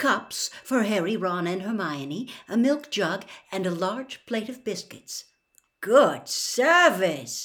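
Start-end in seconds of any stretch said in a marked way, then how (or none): 5.8-7.5 admiring, impressed tone. Reading a character's reaction as elves serve tea: impressed. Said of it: "ron said in an impressed voice".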